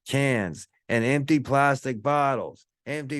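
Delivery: mock big-shot investor bragging, pitched high; hyped-up stock trader. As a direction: play a guy in a suit hyping a stock tip on the phone. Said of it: "and he's like".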